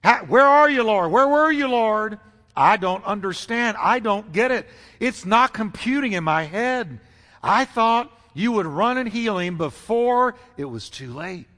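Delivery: acted bewildered hurt, pleading; pained pathos. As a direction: plead like a grieving sister who can't understand. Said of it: "all kinds of pain and pathos in her voice".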